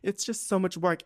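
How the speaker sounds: high-pitched mimicking of a complaint; mocking repeat. Woman mocks her date's complaint about driving, high mocking voice.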